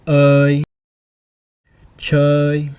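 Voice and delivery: Ơi and Chơi said loud with a long vowel; teacher modelling ơi loudly; loud clear demo. Shown as a demonstration. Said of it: "O with the hook I".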